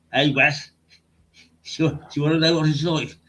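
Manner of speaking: quick demonstration in broad Brummie; Birmingham accent. Shown as a demonstration. Guest showing the host his local Birmingham accent. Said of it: "adopt a Birmingham accent".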